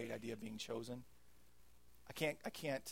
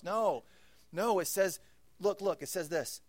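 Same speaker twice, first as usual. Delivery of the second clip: emphatic; 6 semitones higher, 7 dB louder than usual. Real, not acted. Rejecting wrong view.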